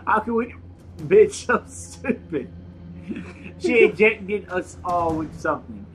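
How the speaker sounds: put-on slow, melodramatic Russian accent. Player reading a game note on request, mock Russian accent.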